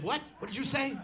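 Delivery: high, loud indignant challenge; pissed-off daughter. Retold or imitated. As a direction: demand it like an offended daughter. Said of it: "She was, like, pissed".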